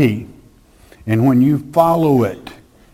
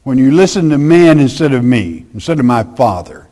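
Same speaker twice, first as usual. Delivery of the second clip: Jesus rebuking; 2 semitones higher, 4 dB louder than usual. Retold or imitated. Preacher voicing Jesus rebuking the Pharisees, loud then settling. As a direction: call them hypocrites to their face. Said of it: "the sweet Jesus said".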